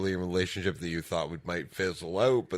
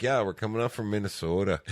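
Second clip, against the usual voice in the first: lightly imitated Minnesota accent; 2 semitones higher than usual. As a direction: retell it with a hint of Minnesotan vowels. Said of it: "I'm listening to their accent".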